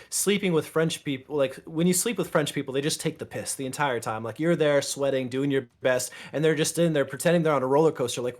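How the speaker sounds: lightly voiced joke from his video, rising to a mock squeal; retelling his joke with a hammed-up ending; joke video bit. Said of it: "one video that I made that said".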